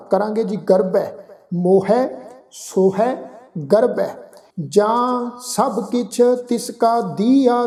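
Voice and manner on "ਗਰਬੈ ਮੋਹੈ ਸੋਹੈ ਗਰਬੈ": ਗਰਬੈ ਮੋਹੈ ਸੋਹੈ ending in a full ai sound; teacher drills ਗਰਬੈ ਮੋਹੈ ਸੋਹੈ; pronunciation drill. Shown as a demonstration. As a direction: stress the dulaavaan ending of ਗਰਬੈ. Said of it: "ਬੱਬੇ ਦੇ ਉੱਪਰ ਦੁਲਾਵਾਂ ਦਾ ਪਾਠ".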